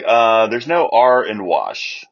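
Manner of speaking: slow, deadpan correction; retelling his deadpan jab at her accent; dry correction. Retold or imitated. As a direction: correct her flatly and slowly. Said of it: "And I'm like".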